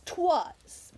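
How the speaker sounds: 'twas said as one clipped syllable, twoz; old word 'twas. Shown as a demonstration. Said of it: "that's how they used to say".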